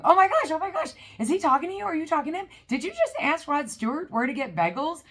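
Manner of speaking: high, loud, breathless excitement; excited mom. Retold or imitated. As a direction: squeal it like a starstruck mom. Mom freaking out over the phone.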